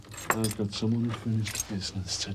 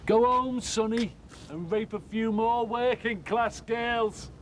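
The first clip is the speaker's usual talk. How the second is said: bitter furious shout; 12 semitones higher than usual. Acted. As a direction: throw his words back at him in rage. Angry drunk confronting neighbour.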